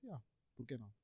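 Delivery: normal talking voice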